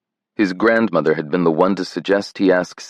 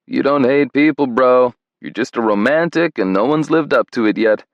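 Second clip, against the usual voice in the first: wry best friend; 5 semitones higher than usual. Retold or imitated. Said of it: "shake his head and say".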